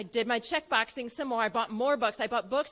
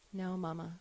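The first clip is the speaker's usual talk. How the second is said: put-on small child answer; 7 semitones lower, 8 dB quieter than usual.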